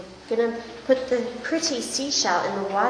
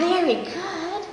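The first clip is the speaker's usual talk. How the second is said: slow exaggerated speech modeling; 7 semitones higher, much slower than usual. Shown as a demonstration. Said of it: "therapist praise, slow high".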